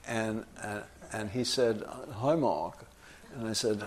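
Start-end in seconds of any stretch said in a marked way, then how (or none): 2.2-2.8 plummy Boston "Hoy, Mawk"; imitated Boston accent. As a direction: greet in a rounded Boston accent. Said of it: "he spoke like this".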